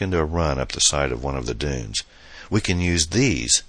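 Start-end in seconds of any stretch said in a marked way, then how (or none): 2.5-3.6 called back. Acted. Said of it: "she called back to Adam".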